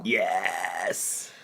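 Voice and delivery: a spooky demon yes. Real, not acted. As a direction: answer like a lurking demon. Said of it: "I said yes in my demon voice".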